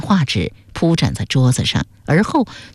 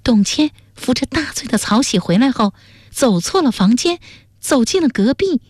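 high, deliberate pronouncement; high-pitched, carefully measured explaining; word by word; 8 semitones higher than usual. A narrator's reading. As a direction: spell out the conclusion phrase by phrase. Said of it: "最后一字一字地说".

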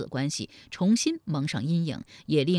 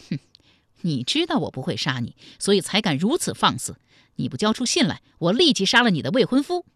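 sneering threat, building louder; cold sneer; 3 dB louder than usual. Acted. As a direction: start with a scornful hmph, end in a forceful threat. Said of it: "冷笑说". (冷笑威胁，越说越重)

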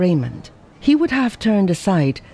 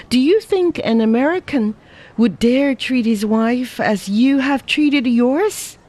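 put-on higher, brisk young woman scolding; Ada's voice lecturing; 6 semitones higher than usual. A narrator's reading. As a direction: lecture him, lightly voiced and reproachful. Ada scolds Lin Fo.

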